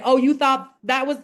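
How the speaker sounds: lightly voiced teasing spirit. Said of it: "spirit will oftentimes say".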